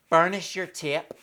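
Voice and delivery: lightly put-on Irish accent; a touch of mock Irish. Shown as a demonstration. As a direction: say it with a jokey Irish lilt. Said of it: "say that in an Irish accent".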